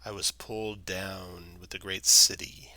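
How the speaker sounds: put-on weary old tree, unhurried; talking tree. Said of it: "speaks in a slow, slow voice".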